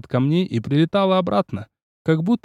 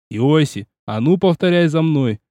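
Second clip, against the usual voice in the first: barked order. Acted. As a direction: roar it so the fish hear. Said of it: "гаркнул я".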